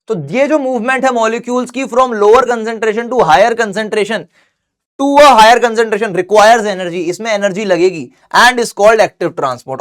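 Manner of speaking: very slow word-by-word note dictation. Acted. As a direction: dictate so students can write it. Dictating definition.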